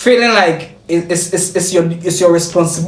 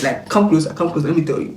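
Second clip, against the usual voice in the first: hushed confiding; 3 semitones lower, 5 dB quieter than usual. Pretend. Draws listener in to confide.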